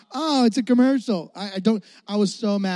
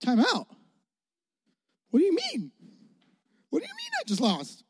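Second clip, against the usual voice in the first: stunned disbelief; 7 semitones higher, 6 dB quieter, faster than usual. Retold or imitated. Kid shocked at losing.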